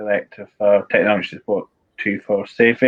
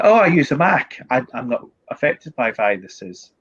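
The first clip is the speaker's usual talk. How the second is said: smug mock quote; 2 semitones higher than usual. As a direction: mimic a know-it-all Mac owner. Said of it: "people are like".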